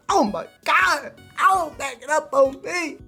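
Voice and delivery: high, stretched squeal of mock ecstasy; hammed-up thrill. Streamer reacting to manga art, squealing in overblown excitement. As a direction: wail it in exaggerated delight.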